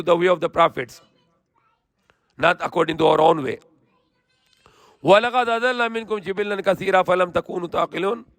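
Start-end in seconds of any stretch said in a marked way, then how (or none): 5.0-8.2 swift, even Quranic recitation. Acted. Preacher reciting the verse to listeners in quick chant.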